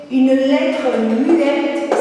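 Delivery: "une lettre muette" said very slowly, x0.4; slow emphasis. Shown as a demonstration. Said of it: "que nous ne prononçons pas". (très lentement)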